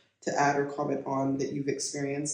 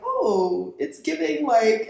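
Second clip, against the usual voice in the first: retold slang; 7 semitones higher, 3 dB louder, much slower than usual. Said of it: "I was like".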